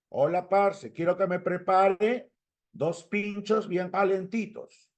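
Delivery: put-on slow, sing-song Colombian accent; drawn-out imitation of a Colombian speaker. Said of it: "en Colombia".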